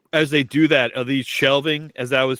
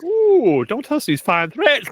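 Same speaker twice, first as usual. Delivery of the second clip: prissy thug voice; 11 semitones higher, 4 dB louder than usual. Acted. NPC thug voiced by player.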